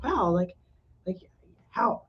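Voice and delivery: mildly stunned, halting disbelief; shock. Retold or imitated. Wife imitates her husband seeing the housework done, mild shock. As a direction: imitate a husband at a loss for words. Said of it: "like, in shock".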